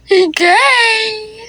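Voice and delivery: high laughing disbelief. Real, not acted.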